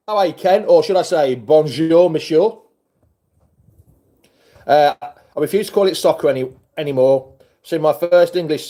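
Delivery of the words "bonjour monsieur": French greeting. Real, not acted. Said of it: "trying to speak French to him".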